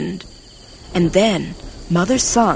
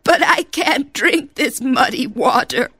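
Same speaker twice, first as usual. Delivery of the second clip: Jumbuck voice; 6 semitones higher than usual. Acted. Jumbuck speaks in story.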